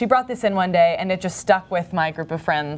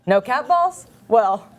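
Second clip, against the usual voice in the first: lightly performed, earnest deadpan reading with pauses; naive ad reading. Acted. Reading a child cats ad to the co-host, earnest deadpan delivery. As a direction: read each odd phrase as if it made perfect sense. Reads a Craigslist ad in character.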